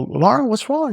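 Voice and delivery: high-pitched, re-enacted concerned question. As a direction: ask as if checking on someone upset. Boss approaches upset assistant.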